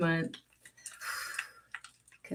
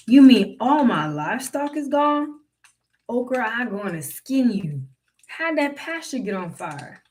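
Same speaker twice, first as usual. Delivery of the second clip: lightly voiced plantation master, higher and alarmed; a hint of the master panicking, pitched up; alarmed old master; 5 semitones higher, 5 dB louder than usual.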